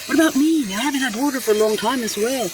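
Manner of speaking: high, pleading little plant voice that speeds up; plant's plea. Pretend. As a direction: play a thirsty plant begging for attention. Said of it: "it's the crassula saying".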